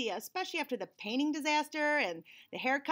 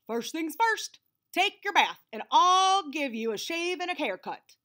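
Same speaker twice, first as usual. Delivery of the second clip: eager Ted voice; 5 semitones higher, 6 dB louder than usual. Acted. Ted excited about grooming plan.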